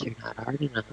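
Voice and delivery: flat quiet robot voice; deadpan machine robot voice. Retold or imitated. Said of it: "Like, it's a robot voice".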